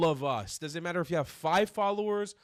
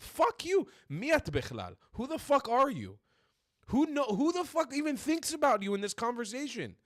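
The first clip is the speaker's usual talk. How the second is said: loud, furious shouting, much higher pitch; real angry rant; 7 semitones higher, 4 dB louder than usual. Real, not acted. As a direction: blow up at her, yelling every line. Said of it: "I get fucking angry".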